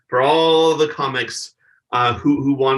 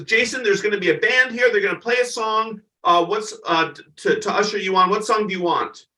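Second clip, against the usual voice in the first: Joan Rivers asking; 6 semitones higher than usual. Retold or imitated. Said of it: "She goes".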